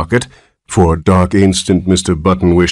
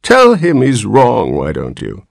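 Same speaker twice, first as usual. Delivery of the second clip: put-on whiny old man; 5 semitones higher than usual. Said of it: "he complained in a weak voice".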